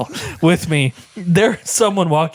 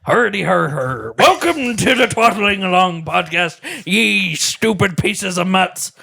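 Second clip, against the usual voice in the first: lightly voiced pirate greeting; a hint of a salty pirate captain. Host greets listeners as a mild pirate. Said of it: "Okay, do your pirate".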